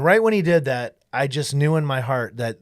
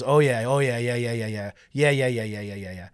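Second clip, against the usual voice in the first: maniacal retold babble; 3 semitones lower, 4 dB quieter than usual. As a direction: mockingly rattle off each "yeah", fading away. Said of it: "it was really maniacal".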